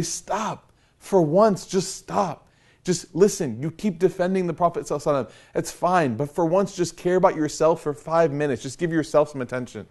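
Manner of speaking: exasperated pleading. Retold or imitated. Worried family begging him to rest, mildly exasperated.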